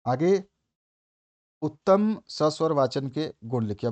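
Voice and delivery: ordinary delivery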